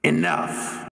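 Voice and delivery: breathy, voiceless mock yell; a held-back yell, all breath; Maggie's yell. Game master voicing Maggie cutting off the argument, mock yell.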